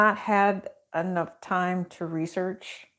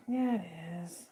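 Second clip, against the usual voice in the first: slow whispered reply; 8 dB quieter, much slower than usual. Real, not acted. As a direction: whisper it slowly to yourself. Answers herself twice.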